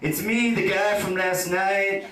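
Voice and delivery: lightly hammed eager lad reading out his own text; mock keen texter. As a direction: play the too-keen guy pleading for a reply. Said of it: "dropping a text going".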